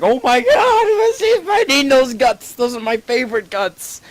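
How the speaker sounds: very high, loud wail; hammed-up tearful whine; mock crying. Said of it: "you're, like, crying".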